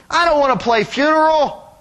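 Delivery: mildly voiced girl protesting; a hint of a whiny little girl; little girl yelling. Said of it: "some little girl yells".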